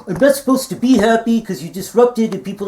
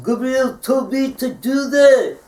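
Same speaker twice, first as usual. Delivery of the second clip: slow put-on toy duck voice; a slowed, higher mock Quacky; imitated Quacky voice; 3 semitones higher, slower than usual. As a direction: fake being Quacky, slow and sly. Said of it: "That's not my voice. You can't do my voice".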